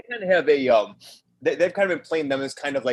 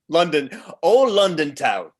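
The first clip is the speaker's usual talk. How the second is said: mock Cockney; slower than usual. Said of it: "That's my accent".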